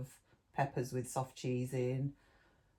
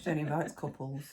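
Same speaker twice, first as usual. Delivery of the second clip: laughing. Real, not acted. Joking about not being invited.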